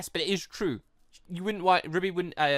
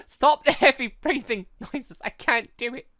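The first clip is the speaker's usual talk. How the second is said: laughing, high and slow; 8 semitones higher, 5 dB louder than usual. Real, not acted. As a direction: get the words out through laughter. Laughing at the breathing sounds.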